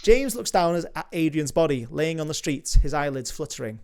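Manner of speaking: measured read of stage directions; screenplay narration. A narrator's reading. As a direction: narrate the scene like a script reader.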